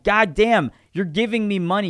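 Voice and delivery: exasperated acted complaint; indignant creator outburst. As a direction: protest it loudly, voice jumping up. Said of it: "'Cause we're going".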